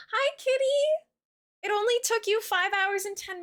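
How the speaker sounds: cooing pet-talk greeting. Real, not acted. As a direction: coo at the cat. Greeting her cat on stream.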